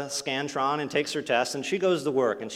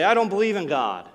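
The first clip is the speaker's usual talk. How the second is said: mock angry outburst; 7 semitones higher, 7 dB louder than usual. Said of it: "They say".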